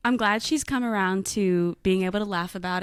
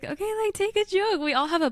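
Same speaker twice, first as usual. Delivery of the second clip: dismissive; 10 semitones higher than usual. Retold or imitated. Retold dismissive reaction to teasing.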